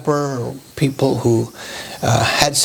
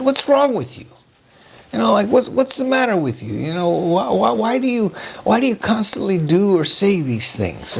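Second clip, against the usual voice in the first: mild mock snap, higher pitch at normal volume; retold snapping; 5 semitones higher than usual. Speaker recalls lashing out at someone in the office, mildly snapping. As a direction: re-enact an exasperated, high-pitched scolding without shouting. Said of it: "I kinda snapped at them".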